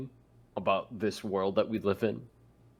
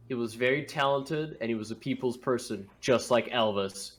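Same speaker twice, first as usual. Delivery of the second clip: softly spoken mock eulogy; 4 dB quieter than usual. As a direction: give a hushed funeral tribute. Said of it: "I could already imagine Eli's eulogy".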